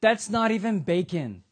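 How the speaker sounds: mock-indignant rant about Canadian bacon. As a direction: scoff at Canadian food, worked up. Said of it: "And they're like".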